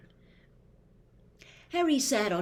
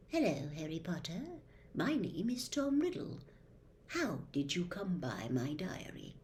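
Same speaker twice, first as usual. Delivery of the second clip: soft, hushed diary voice, a hint of menace; lightly voiced smooth young man, softer; Tom Riddle; 6 dB quieter than usual. Riddle greets Harry through the diary, quietly.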